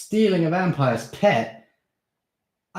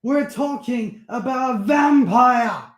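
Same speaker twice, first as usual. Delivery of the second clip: much higher, louder panicked rant; angry; 7 dB louder than usual. Acted. Steve warning Darren the vampire will come, angry. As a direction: frighten him with the danger.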